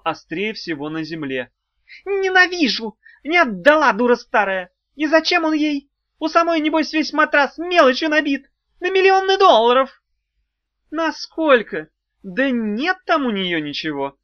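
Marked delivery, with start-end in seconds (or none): 2.0-10.0 high, loud furious shriek; shrieking fury. A narrator's reading. Imp rages at the old woman who kept her Eidos. Tukhlamon raging, beating himself on floor. 10.9-14.2 doubtful scoff. A narrator's reading. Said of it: "усомнилась ведьма".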